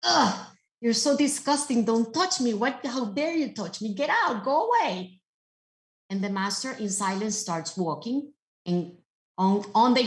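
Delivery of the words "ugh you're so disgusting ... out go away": a scornful, disgusted rich lady, pitched higher; rude rich lady. Retold or imitated. Wealthy lady scorning the old master, scornful and higher. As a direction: push the old man away with contempt. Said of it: "looks at this old man and tells him".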